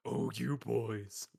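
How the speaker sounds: slow coy flirty drawl; coy floozy.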